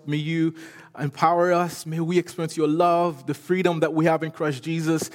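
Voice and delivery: earnest prayer before the sermon; leading his congregation in prayer, earnest and sincere; pastoral prayer. Acted. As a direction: pray aloud sincerely for the church.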